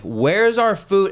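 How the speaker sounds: high, slow indignant demand; mock demand. Customer demanding food, high and slow. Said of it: "I was like".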